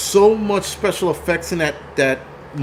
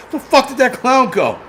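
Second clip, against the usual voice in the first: startled audience; 8 semitones higher than usual. Retold or imitated. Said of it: "everybody in the theater was like".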